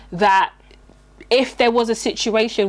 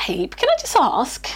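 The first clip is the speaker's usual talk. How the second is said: whispering. Pretend. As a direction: whisper it sweetly, slowly. Acted sweet question to partner.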